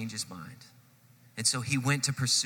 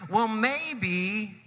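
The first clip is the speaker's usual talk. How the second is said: grumbling; 8 semitones higher than usual. Acted. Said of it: "an even worse thing".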